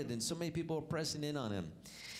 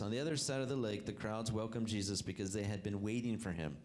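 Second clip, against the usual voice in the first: scripture reading; 2 semitones lower than usual. Acted. Reads scripture aloud.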